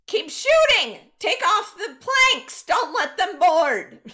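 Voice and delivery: high, full-voiced captain's commands; loud battle shout, each order punched. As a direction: yell urgent orders to the crew. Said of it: "he starts shouting orders".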